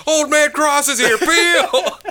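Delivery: put-on high, loud cranky old man; hammed-up grouchy old codger. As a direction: shout like a crabby old neighbor. Playing a grumpy old man.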